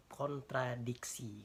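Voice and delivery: KONTRADIKSI slowly, syllable by syllable; slow, exact "kontradiksi"; careful articulation. Shown as a demonstration. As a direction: mouth every sound of "kontradiksi" slowly. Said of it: "yang sesuai gitu".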